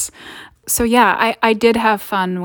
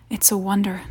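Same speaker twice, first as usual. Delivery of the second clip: whispering; 5 dB quieter than usual. Acted. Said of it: "I whisper, staring at the shards".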